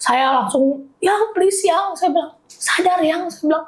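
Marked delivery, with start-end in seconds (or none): 1.0-2.0 higher-pitched pleading, mildly re-enacted; retold urgent plea. Wife begging fainting husband, retold pleading. 2.5-3.2 raised-pitch urging, mildly re-enacted; retold plea. Wife urging husband to stay conscious, retold pleading.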